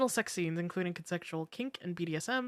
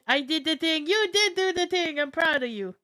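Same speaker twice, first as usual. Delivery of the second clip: excited cheer; 9 semitones higher, 6 dB louder than usual. Real, not acted. Cheering, laughing.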